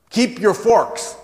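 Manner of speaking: put-on high, loud, slow German-accented command; thick German accent. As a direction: proclaim it firmly in a German accent. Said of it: "She had a very thick German accent".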